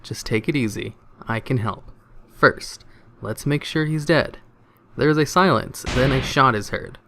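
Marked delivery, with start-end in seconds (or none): 0.0-4.4 softer, gentle operator voice; calm, soothing. Acted. Emergency operator calming a panicked hunter, soft and soothing. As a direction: settle the caller down softly. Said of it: "in a calm, soothing voice".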